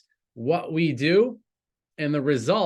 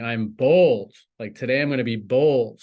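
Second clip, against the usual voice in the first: bold; 2 semitones lower, 5 dB louder than usual. Shown as a demonstration. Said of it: "I'm empowered, that's a way of being".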